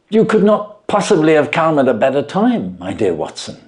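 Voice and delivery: a touch of cordial welcome, lightly voiced; cordial Holmes. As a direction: greet your friend gladly, understated. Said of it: "he said cordially".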